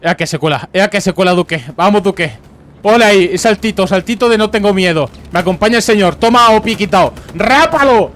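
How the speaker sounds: high, loud hype for Duque; excited cheering. Real, not acted. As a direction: cheer him on like a fan. Hyping up his favourite soldier.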